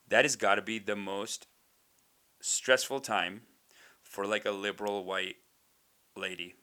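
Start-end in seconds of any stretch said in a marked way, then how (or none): none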